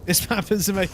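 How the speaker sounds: laughing through the words. Real, not acted. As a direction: chuckle as you repeat it. Laughing repeat of partner.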